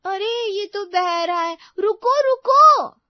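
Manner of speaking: high, slow, loud panicked wail; panicked cry. Acted. Bride panicking as dough spills over, high loud wail.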